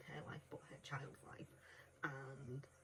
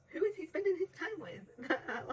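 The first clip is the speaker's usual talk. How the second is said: giggling breathily, much higher; laughing whisper; 12 semitones higher, 12 dB louder than usual. Real, not acted. Reviewer giggling at a character's slang, laughing whisper. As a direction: laugh through the words. Laughing aside about his friends.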